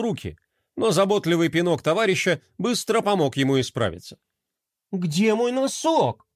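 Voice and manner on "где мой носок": put-on slow, higher boy's call. A narrator's reading. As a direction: call out for the lost sock. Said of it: "раздался крик Ромы". (медленный высокий мальчишеский зов)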